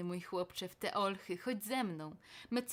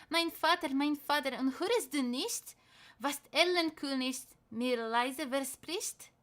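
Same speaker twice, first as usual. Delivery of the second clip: put-on higher, louder child's cry; frightened child; 4 semitones higher, 4 dB louder than usual. Boy telling father of the Erlking's promise, frightened. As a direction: call to father in fear.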